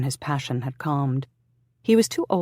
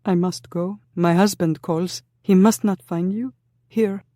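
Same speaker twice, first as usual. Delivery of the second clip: higher and louder, urgent; hurry, afraid her husband comes; frightened young woman; 6 semitones higher, 6 dB louder than usual. Acted.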